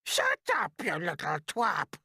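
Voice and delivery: very high, loud, snapping rebuke; snapped. A narrator's reading. Aunt snapping at James for speaking, high and loud. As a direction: snap it at the boy. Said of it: "Aunt Spiker snapped".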